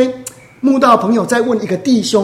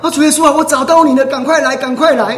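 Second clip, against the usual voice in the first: urgent prayer; 4 semitones higher than usual. Retold or imitated. Woman calling to the Lord she found, urgent prayer. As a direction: urge the Lord to hurry, acted out.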